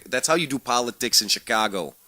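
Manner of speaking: lightly put-on Chicago accent; attempted Chicago accent. Radio host jokes about Chicago politics, in a shaky-attempt Chicago accent. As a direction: have a rough go at a Chicago accent. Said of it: "what kind of stupid accent that was".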